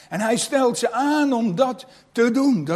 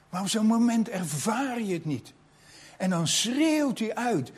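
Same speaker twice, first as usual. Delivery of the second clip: usual speaking voice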